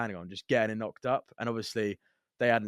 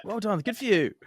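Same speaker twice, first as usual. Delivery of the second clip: echoed sarcasm; 10 semitones higher than usual. Retold or imitated. Echoing the sarcasm.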